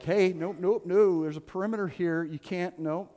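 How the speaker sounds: hammed-up security guard voice; mock Secret Service agent. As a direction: play a bossy bouncer guarding Jesus. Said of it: "Jesus Secret Service and like".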